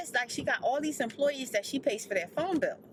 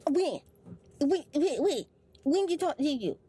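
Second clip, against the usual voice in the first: defensive daughter; 3 semitones higher, 3 dB louder than usual. Retold or imitated.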